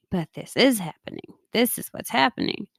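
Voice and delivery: gentle, lightly amused reminder to yourself; kind, with a wink at yourself; kind, tongue-in-cheek. Shown as a demonstration. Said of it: "In a kind and, kind of, like, funny, tongue-in-cheek kind of way".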